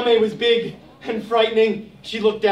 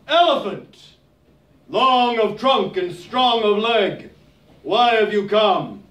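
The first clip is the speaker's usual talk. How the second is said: slow regal. Acted. Nyame slow.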